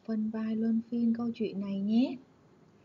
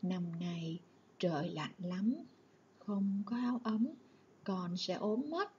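mother's voice lowered; 4 dB quieter than usual. Shown as a demonstration. Mother worries Tuấn will fall ill without a coat, voice lowered. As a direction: drop the voice, concerned and gentle. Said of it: "Giọng mẹ trầm xuống".

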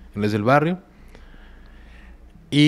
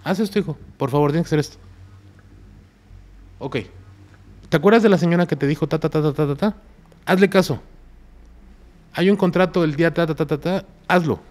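higher-pitched coaxing instructions; friend voicing the deity; 6 semitones higher than usual. Friend relaying the statue's orders to him, higher coaxing voice. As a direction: play the friend passing on orders, lifted and insistent. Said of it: "Y es que él decía".

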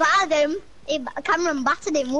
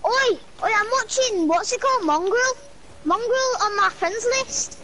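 calling out; 5 semitones higher than usual. Real, not acted. Calling out to friend.

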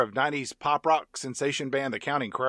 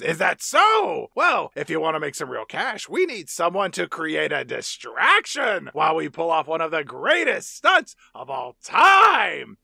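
pompous Rizzo; 3 dB louder than usual. Retold or imitated. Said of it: "And Rizzo says".

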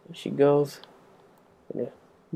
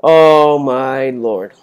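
very slow, louder drawn-out dismay; dismayed groan; 7 dB louder, much slower than usual. Real, not acted. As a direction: stretch it out in alarm. Panic in game.

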